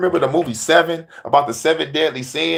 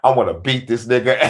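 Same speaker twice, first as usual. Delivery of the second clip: 1 grumbling Michael; 4 semitones lower than usual. Acted. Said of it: "Michael over there with his arms folded".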